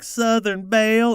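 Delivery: operator greeting. Retold or imitated. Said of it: "she'd be like".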